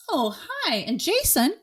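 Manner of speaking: high, bright mock-customer-service tone; chirpy clerk. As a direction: play the peppy receptionist. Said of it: "it would be".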